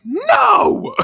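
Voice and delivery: sudden high, loud yelled refusal; shouted no. Retold or imitated. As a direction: blurt it out as a big yell. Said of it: "she's like".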